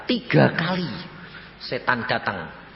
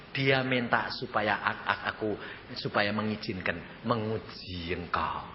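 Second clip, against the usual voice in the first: calm divine reply; 3 semitones lower, 6 dB quieter than usual. Retold or imitated. Jesus calmly explains to preacher.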